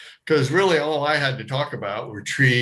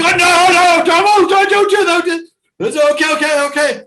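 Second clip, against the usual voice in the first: high, loud pleading yell; frantic shouting; 14 semitones higher, 11 dB louder than usual. Retold or imitated. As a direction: beg the driver not to move. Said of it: "They go".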